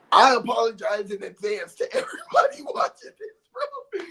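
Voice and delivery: laughter breaking into the words; laughing apology. Real, not acted. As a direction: apologise while cracking up. Laughs while apologising to viewers.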